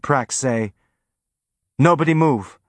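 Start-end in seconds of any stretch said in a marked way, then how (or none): 1.8-2.6 loud and higher, shaky; loud but quavering. A narrator's reading. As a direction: brave order with a tremble. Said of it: "in a loud but quavering voice".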